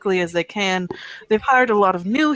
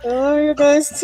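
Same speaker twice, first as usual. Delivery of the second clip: muffled, echoing into a mug; talking into a glass; 4 semitones higher, 5 dB louder than usual. Real, not acted. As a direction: speak into a cup. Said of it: "Are you talking to a glass?".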